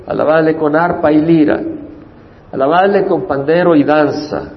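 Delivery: solemn psalm recitation, rising with each verse; scripture reading. Acted. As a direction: proclaim each line of praise to the congregation. Reads Psalm 150 aloud.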